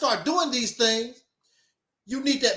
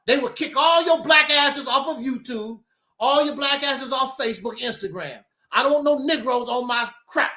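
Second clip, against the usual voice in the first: mock racist rant. Voicing racists kicking blacks out.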